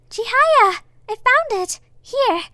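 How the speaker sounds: loud high cheerful call; loud excited shout; happy calling out. Acted. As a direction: call across the hall with the pouch. Calling out to friend.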